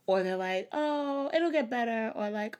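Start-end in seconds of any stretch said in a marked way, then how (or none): 0.7-2.1 high, sing-out mock reassurance; mock cheer-up. Mimicking people who brush off depression, mock cheery. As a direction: imitate an unhelpful comforter.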